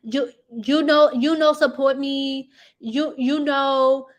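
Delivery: lightly voiced husband pleading; a hint of a whining husband; mocking the husband. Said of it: "He's like".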